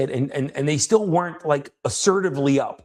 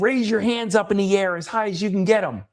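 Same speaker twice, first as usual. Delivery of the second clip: raised-pitch coaching command; retold rallying instruction in a higher voice; intense, assertive; 6 semitones higher than usual. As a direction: urge them on insistently. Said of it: "way more intense and way more loud".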